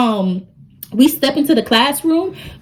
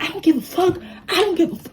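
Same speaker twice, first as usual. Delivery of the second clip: mock defiance; 7 semitones higher, 6 dB quieter, faster than usual. Maddie going crazy.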